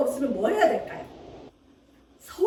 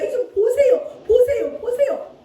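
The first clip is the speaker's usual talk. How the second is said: louder, higher begging to look; pleading cry; 7 semitones higher, 4 dB louder than usual. Retold or imitated. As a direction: call out insistently for God to see. Hezekiah begging God to look.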